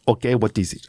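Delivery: lightly imitated thick Afghan accent; bad Afghan accent. Driver asking about the idea, bad Afghan accent. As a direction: put on a clumsy Afghan accent. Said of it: "I'm gonna do a bad accent".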